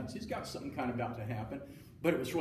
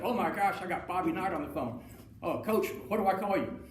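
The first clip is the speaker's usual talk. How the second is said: flustered astonishment; 5 semitones higher than usual. Retold or imitated. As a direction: act stunned to have the coach calling. Hal realizes it's really Knight.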